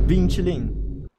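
high, slow copy of the game voice; imitating the game voice. Streamer copies the game's voice line, high and slow. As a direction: stretch the name out like the game says it. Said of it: "repeats the game voice".

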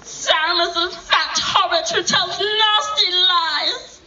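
whiny then whispered Gollum; two-faced creepy Gollum. Pretend. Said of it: "you're gonna do the, uh, Gollum".

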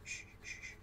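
breathy shushing whisper; whisper yelling. Real, not acted. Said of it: "Why are you whispering?".

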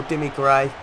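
rising excitement as he shoots; excited play-by-play. Real, not acted. Live play-by-play of a chance.

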